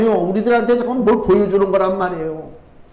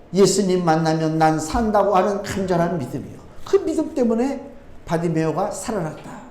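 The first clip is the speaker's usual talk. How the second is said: ordinary talk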